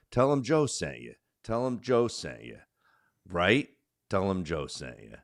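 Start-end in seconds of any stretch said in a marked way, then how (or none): 0.1-2.6 mock radio host pitch, a touch higher; talk radio plug. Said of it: "they say on talk radio".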